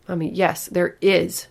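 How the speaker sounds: put-on loud stubborn child insisting; child demanding. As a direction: insist it, stubborn little girl. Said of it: "she demanded".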